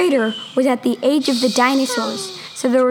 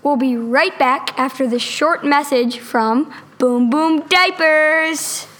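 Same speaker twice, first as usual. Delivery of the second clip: announcer voice; 2 semitones higher than usual. Pretend. Announcer ad read.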